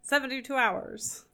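a hint of a vintage radio host, as if on too much coffee; old-timey radio announcer. Shown as a demonstration. Podcaster redoing the villain's line as a light old-timey announcer. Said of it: "It's a kind of old-timey radio announcer".

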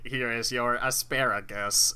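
slow, stiff robot cook voice; glitching robot. Pretend. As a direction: deliver it like a broken robot chef. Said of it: "a malfunctioning robot cook".

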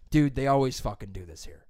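imitated irritated rant, slipping into laughter; mildly angry retold outburst; mock yelling. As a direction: complain like a fed-up gym-goer. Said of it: "you can stop yelling at me now".

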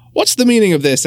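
high-pitched official demanding an explanation; indignant demand. A narrator's reading. Mayor confronts children who rang bell.

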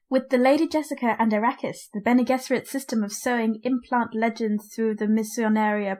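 measured, even book reading; steady narration of a scholarly text; reading a quotation aloud. Real, not acted. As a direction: read it out like a formal epigraph. Reads the book's epigraph.

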